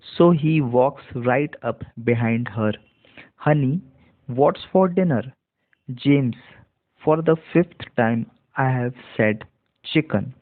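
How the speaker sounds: each word read slowly for learners; slow demo reading. Shown as a demonstration. Teacher reads the story slowly to students, clear and slow. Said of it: "देख लेते हैं पूरा एक साथ".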